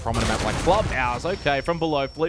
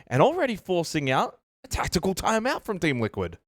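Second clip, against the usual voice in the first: excited play-by-play; 4 semitones higher than usual. Real, not acted. Live esports play-by-play, round win.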